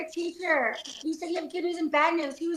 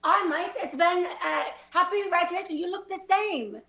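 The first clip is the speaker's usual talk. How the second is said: rough attempt at Australian; Australian accent. Graduate greeting a classmate, in an Australian accent. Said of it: "let's say they're all Australian".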